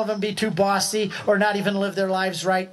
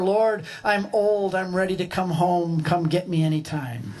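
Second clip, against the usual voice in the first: quoting father's prayer; 3 semitones lower than usual. Retold or imitated. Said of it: "words on his lips".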